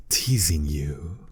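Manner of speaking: slow breathy whisper on the last words; whispered tease. Acted. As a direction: drop to a slow seductive whisper.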